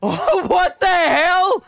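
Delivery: shocked laugh. Real, not acted. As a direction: catch it, stunned. Discovers ring was in wallet.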